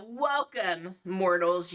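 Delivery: lightly voiced sinister host; horror host. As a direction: greet like a sly horror host. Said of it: "you hear one of the ones".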